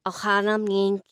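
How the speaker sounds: "means" with its S swallowed; attempted lisp. Shown as a demonstration. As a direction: try "Ohana means" but fail on the S. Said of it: "but I can't do the S".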